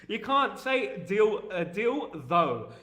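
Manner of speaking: slow, with "deal" set apart from "though"; amused enunciation. Shown as a demonstration. Streamer laughing at his own accent, slowly separating "deal" and "though". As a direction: pick out "deal" slowly, then drop "though". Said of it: "You can't pronounce things like that".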